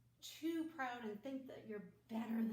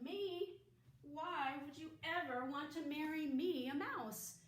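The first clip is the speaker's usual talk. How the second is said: higher, louder little mouse; a surprised mouse squeaking back; teacher voicing the mouse to the cat, high and surprised; squeaky mouse voice; 4 semitones higher, 6 dB louder than usual.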